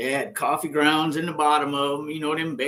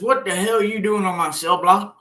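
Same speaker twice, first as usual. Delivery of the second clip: retold angry guard; 4 semitones higher, 5 dB louder than usual. Guard confronts him on block.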